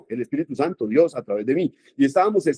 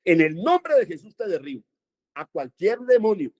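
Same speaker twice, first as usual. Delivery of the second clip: firm, commanding rebuke, a little higher; with authority; 5 semitones higher than usual. Shown as a demonstration. Preacher showing the flock how to rebuke with authority. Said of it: "menciónoselo con autoridad".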